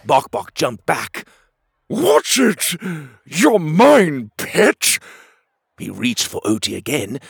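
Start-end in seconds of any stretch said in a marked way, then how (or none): 1.9-5.0 loud, high angry warning; growled warning. Acted. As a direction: snap at the dragon. Bok Bok threatens the dragon.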